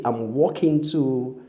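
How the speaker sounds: walking with a clear aw vowel, wɔkɪŋ; teacher stretches walking slowly, aw sound; walk said right. Shown as a demonstration. Teacher models walking for learners. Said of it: "W A L K".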